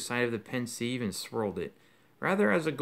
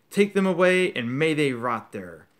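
higher, loud enraged roar; furious roar; 3 semitones higher, 7 dB louder than usual. Acted. Crouch roaring at the Dementor to take them, louder and higher. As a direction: spit the order out. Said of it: "Crouch roared at the Dementor".

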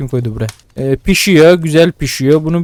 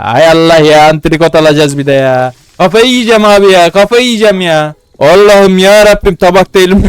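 louder, exasperated venting; frustrated shout; 3 semitones higher, 6 dB louder than usual. Real, not acted. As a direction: cry out to God in frustration. Her şey ters gidince isyan ediyor. (her şey ters gidince bağırarak isyan eden ses)

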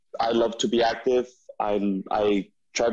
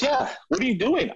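high mock friend insisting; friend's voice; 12 semitones higher than usual. Friend pressing on the hike, high imitated voice. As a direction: replay the buddy pressing. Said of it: "He goes".

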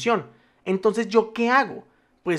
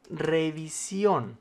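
slow dictation; 4 dB quieter, much slower than usual. Shown as a demonstration. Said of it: "con tilde en la O".

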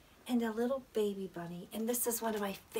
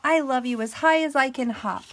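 higher, loud little-hare voice; light mock glee, pitched up; gleeful little hare; 5 semitones higher, 12 dB louder than usual. A narrator's reading. Little hare hopping for big hare, gleeful little voice. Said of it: "laughed Little Nut Brown Hare".

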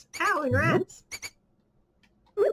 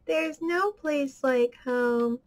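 Wizard of Oz line; slower than usual. Retold or imitated. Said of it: "Wizard of Oz".

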